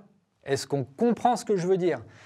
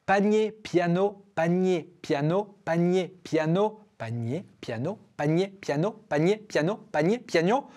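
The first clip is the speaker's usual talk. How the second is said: speeding up repetition. Shown as a demonstration. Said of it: "plus on accélère".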